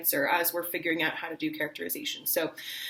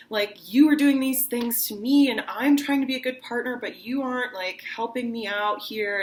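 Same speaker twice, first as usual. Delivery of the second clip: higher, upset reproach to a partner; upset complaint; 4 semitones higher than usual. Shown as a demonstration. Teacher voices a long-distance partner complaining, higher. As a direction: scold them for not talking. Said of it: "and you're like".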